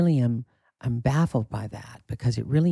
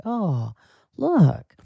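hammed-up impressed family member; mocking relatives; 2 semitones higher than usual. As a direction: gush in a put-on proud-relative voice. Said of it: "not gonna be like".

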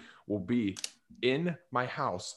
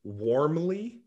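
primly quoting a sappy email sign-off; 4 semitones higher than usual. Retold or imitated. Mocking a coworker's sappy email sign-off, primly. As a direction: say it like a saccharine signature. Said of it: "one more email that ends with".

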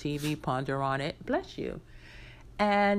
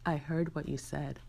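softer, understated retelling of a calm remark; calm, low-key; 2 semitones lower, 5 dB quieter than usual. Retold or imitated. Cousin confronting cousin about an overheard comment, calm and low-key. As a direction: say it quietly and evenly, without any push. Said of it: "very calmly, low-key".

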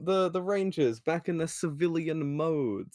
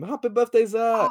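higher, louder party cheer; surprise party shout; 6 semitones higher, 5 dB louder than usual. Retold or imitated. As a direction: yell it like jumping out from hiding.

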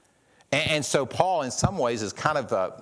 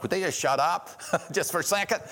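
annoyed, laughing; 7 semitones higher than usual. Retold or imitated. Annoyed listener to cooing doves.

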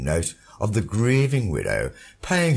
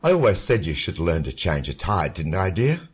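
much lower, mocking male voice; mocking husband; 12 semitones lower, 6 dB louder than usual. A narrator's reading. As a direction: taunt her coolly. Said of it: "The voice mocked".

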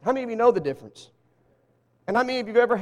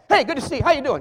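casual greeting; 5 semitones higher, 3 dB louder, faster than usual. Retold or imitated. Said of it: "your boss at work, come by".

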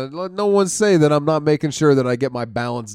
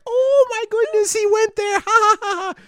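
mock audience gasp; 5 dB louder than usual. Comic mocking crowd reacting to his offensive bit, high and scandalized. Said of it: "everyone's like".

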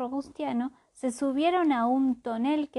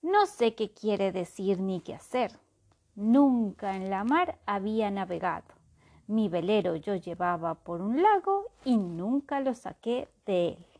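reciting in verse. Acted. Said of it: "responder en verso como siempre".

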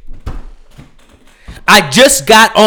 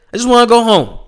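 higher pleading whine; 4 semitones higher, faster than usual. Real, not acted. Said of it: "repeated plea, higher take".

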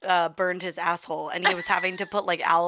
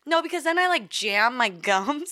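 numb mouth; 4 semitones higher than usual. Real, not acted. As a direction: speak around numb gums. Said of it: "'Cause I can't feel".

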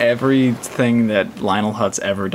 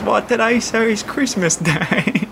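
Mr. Burns voice; 10 semitones higher, slower than usual. Retold or imitated. Mr. Burns quote, retold.

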